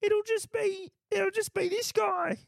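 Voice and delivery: pub bloke playing host; chatty bloke down the pub, signing off. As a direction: put on a pub regular's voice. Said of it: "this guy down at the pub".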